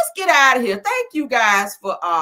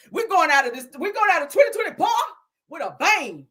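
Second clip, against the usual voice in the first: laughing; 9 semitones higher than usual. Real, not acted. Laughing through the finale.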